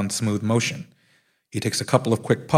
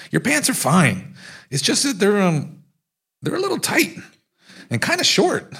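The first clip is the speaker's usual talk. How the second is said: teasing friend; 11 semitones higher than usual. Retold or imitated. Mike teasing Kingston about shorts.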